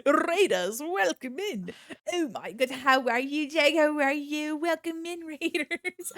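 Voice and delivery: high bubbly streamer greeting; cute anime streamer. Acted. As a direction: gush over the raiders sweetly.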